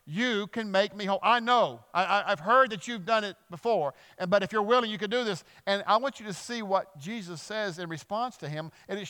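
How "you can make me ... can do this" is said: raised, urgent pleading voice; mild imitated calling out; called-out plea. Leper calls out to Jesus in faith, urgent plea. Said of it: "that's why he calls out".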